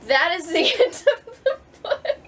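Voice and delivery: high and loud, laughing it out. Real, not acted. Author announces the book's ending, laughing. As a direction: blurt it out mid-laugh.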